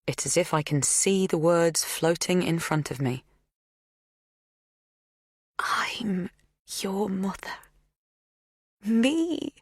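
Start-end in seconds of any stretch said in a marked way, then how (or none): 5.6-9.5 hushed. A narrator's reading. Magda's revelation.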